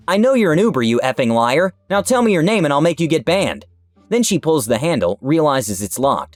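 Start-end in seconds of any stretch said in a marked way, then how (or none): 0.1-3.6 mock screaming at the window; a hammed-up furious yell, higher; retold scream. Woman yelling at driver through window, mock scream. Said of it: "She comes to my driver window and screams".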